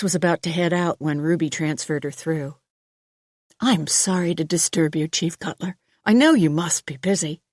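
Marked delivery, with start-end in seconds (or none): 3.6-7.4 a concerned doctor, courteous; female doctor voice. Acted. Doctor's phone call.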